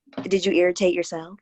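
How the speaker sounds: normal talking voice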